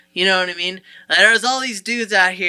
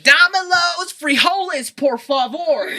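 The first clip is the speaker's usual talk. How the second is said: put-on higher, louder thick American accent on Spanish; bad gringo Spanish accent; 10 semitones higher, 6 dB louder than usual. White construction worker ordering in Spanish, thick American accent. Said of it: "the worst accents ever".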